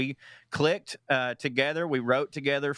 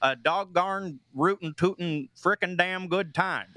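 put-on Midwest accent; 2 semitones higher than usual. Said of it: "impression you can give us?".

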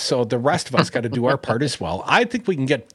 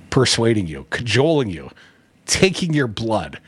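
creepy; 3 semitones lower than usual. Real, not acted. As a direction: draw out the last phrase, faintly sinister. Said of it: "Sounds a little creepy when I say it like that".

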